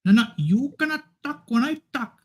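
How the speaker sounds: very high-pitched comic character voice; put-on character voice. Introducing himself as Kasim and forbidding others to talk, in a very high put-on voice. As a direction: squeak it up as a silly character.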